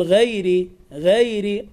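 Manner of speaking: "غير" with light gh and fronted vowel; thin the start of "غير"; thinned ghayn. Shown as a demonstration. Teacher shows what to avoid, thin gh in "غير". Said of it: "لا تقل".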